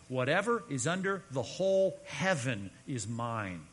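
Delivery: slow, weighty declaration quoted from God; solemn scripture quote. Retold or imitated. Preacher quotes God speaking to Job, slow solemn declaration. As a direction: spell out God's claim deliberately, phrase by phrase.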